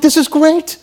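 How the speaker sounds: high, slow exclamation of pride; self-assured, high-pitched zeal; mock delight. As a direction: proclaim it high and loud, drawing it out. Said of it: "you're like".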